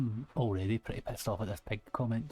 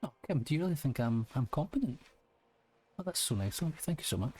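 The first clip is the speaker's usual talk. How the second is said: ironic; 5 semitones higher, faster than usual. Acted. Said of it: "a trace of irony in his voice".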